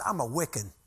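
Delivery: a hint of dark menace imitated; dark ominous voice. Angry bus driver answers the spiritual beliefs question, darkly ominous. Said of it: "Just this dark, ominous voice".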